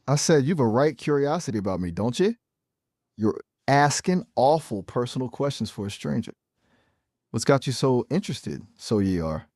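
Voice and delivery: nosy-stranger banter in stage-Irish; Irish accent. Shown as a demonstration. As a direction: question them in a lilting Irish accent. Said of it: "you're talking at eleven percent Irish right now".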